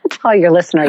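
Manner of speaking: teary laugh. Real, not acted. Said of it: "choked up".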